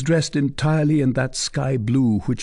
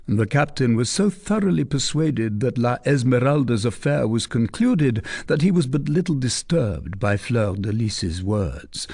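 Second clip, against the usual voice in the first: normal talking voice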